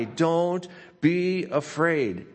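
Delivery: slowed, tender promise; gentle reassurance. Acted. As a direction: comfort a frightened listener. Pastor reading God's comfort aloud.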